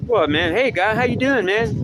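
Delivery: high, hearty hey-buddy greeting; fake friendly greeting. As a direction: play the overeager pal saying hi.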